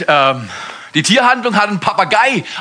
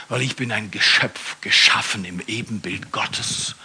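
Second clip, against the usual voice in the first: calm confident answer. Acted. Ruhige Antwort an den Papagei. (ruhig und bestimmt, leise)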